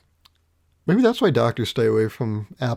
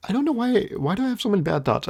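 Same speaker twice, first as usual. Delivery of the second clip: exasperated; 8 semitones higher, faster than usual. Real, not acted. Exasperated at own thoughts.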